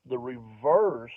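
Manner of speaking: slow, over-explained reverse; drawn out reverse. Retold or imitated. A guy demonstrating the word to a comedian, slowly drawn out. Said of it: "he even gave me the demonstration".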